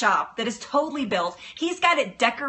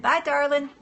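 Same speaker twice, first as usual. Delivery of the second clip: put-on Florida Southern accent; 5 semitones higher than usual. Echoing a viewer's sign-off in a fond Southern accent. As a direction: sing it out like a sweet Southern Florida lady. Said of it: "in your little Florida Southern accent".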